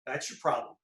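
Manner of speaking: slow, drawn-out Southern drawl. Retold or imitated. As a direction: drawl it like an old Southern pitching coach. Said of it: "with that southern drawl".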